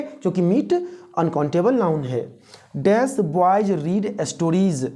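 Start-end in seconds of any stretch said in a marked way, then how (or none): 2.8-4.9 very slow, drawn-out read with a blank; very slow quiz reading. Shown as a demonstration. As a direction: stretch each word for students. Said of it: "क्या होगा?". (बहुत धीमे से खाली जगह वाला वाक्य)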